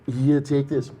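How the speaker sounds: lightly put-on Austrian strongman; bad muscleman impersonation; Arnold Schwarzenegger. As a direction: offer it in a mock Austrian accent. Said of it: "giving us bad Arnold Schwarzenegger".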